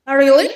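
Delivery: loud questioning rise on "really"; rising intonation. Shown as a demonstration. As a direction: swing "really" up at the end. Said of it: "rising intonation".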